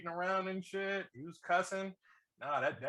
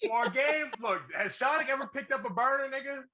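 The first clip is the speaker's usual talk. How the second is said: high, loud, worked-up argument; laughing protest; 8 semitones higher, 4 dB louder than usual. Real, not acted. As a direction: plead your case while cracking up. Laughing defence of his claim.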